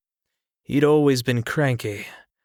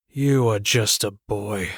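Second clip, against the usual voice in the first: eerily calm; 2 semitones lower than usual. Acted. Old uncle calmly putting the young king in place. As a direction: say it flatly calm, unbothered. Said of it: "his words were so calm".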